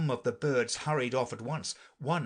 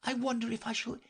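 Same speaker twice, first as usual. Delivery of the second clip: put-on high, forlorn girl's voice; melancholy; 12 semitones higher than usual. A narrator's reading. Alice alone, missing her cat, melancholy. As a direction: lament wistfully, pitched high. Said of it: "in a melancholy tone".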